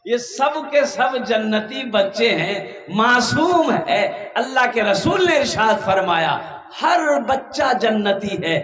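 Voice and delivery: measured declaration building through a list; emphatic preaching. Acted. Preacher tells the crowd every child is heavenly, emphatic preaching. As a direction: preach it, stretching the key words.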